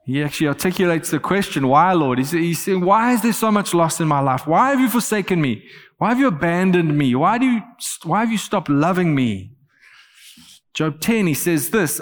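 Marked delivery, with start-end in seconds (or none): 1.7-9.5 demanding. Acted. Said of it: "He demands a reason from the Lord".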